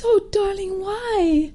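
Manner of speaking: high, cooing mum voice; sympathetic mother. Retold or imitated. Mum answering her sad daughter, sympathetic and high. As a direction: coo with concern to a child. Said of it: "And she goes".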